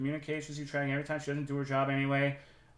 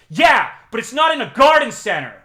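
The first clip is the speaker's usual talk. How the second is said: higher, much louder smug retort; hammed-up triumphant employee; mock indignant employee; 8 semitones higher, 13 dB louder than usual. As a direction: fire back at her like she's won the argument. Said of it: "And she says".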